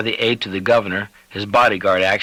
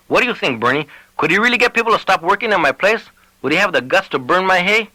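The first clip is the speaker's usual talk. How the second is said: higher, fretful rancher; worried man pleading for reassurance; anxious Lavadier; 9 semitones higher than usual. Acted. Lavadier voiced, nervous to sheriff.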